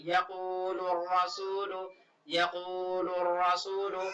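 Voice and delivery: slow chanted यक़ूलु रसूलु, the lam merged into the ra; Quranic recitation. Shown as a demonstration. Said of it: "लाम को रा से मिला देंगे".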